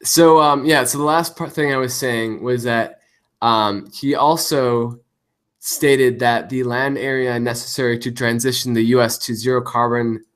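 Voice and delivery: glitchy robotic voice mutator; cyborg voice. Real, not acted. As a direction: voice garbled like a robot. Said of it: "you sound like a cyborg".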